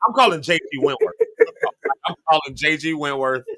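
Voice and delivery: ad slogan parody. Retold or imitated. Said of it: "ad slogan quoted".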